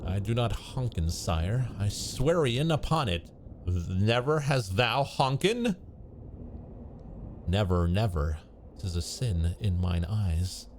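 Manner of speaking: put-on slow, old-fashioned courtly speech; lightly acted olde English dialogue; archaic storybook voices. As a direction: play the solemn forest characters. Voices medieval tree dream characters.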